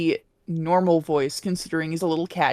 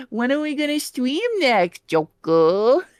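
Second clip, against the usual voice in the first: Morgana voice; 6 semitones higher than usual. Retold or imitated. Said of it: "in the Morgana voice".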